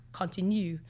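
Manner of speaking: a hint of a mock French accent; lightly put-on French accent. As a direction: say it in your best amateur French accent. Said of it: "that's my best French accent".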